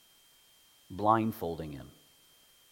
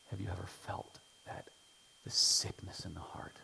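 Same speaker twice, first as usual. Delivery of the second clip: soft, whispered appeal; preacher asking listeners, whispered; intimate whisper; 6 dB quieter than usual. Real, not acted. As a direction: lean in and whisper to the congregation.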